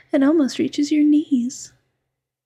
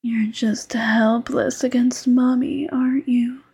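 mommy voice. Acted. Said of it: "when I use this voice on you".

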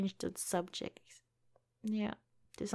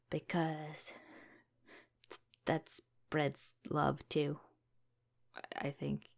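whispering; 3 semitones lower, 4 dB quieter, slower than usual. Real, not acted. Soft whispered aside.

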